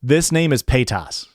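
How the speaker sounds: Paytas ending in an open "ah", like PAY-tahss; Paytas with Midwest ah. Shown as a demonstration. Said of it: "to me".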